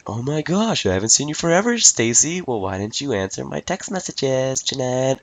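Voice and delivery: high, mock girly gossip voice; a teasing impression of school girls catching up. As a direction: ham up the dramatic schoolgirls. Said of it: "all these girls bitching and complaining".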